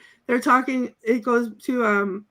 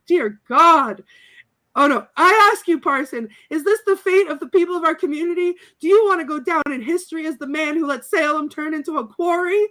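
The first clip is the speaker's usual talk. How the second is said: parson impression; 4 semitones higher than usual. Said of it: "the parson goes".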